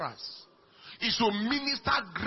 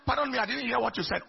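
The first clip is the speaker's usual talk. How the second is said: polite pardon; faster than usual. Shown as a demonstration. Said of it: "Instead of saying".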